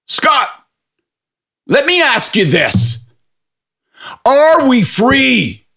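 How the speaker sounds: high, slow, drawn-out mock question; conspiratorial drunk. Drunk pub guy quizzes Scott, slow mock conspiracy voice. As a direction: lean in like a drunk with a secret theory.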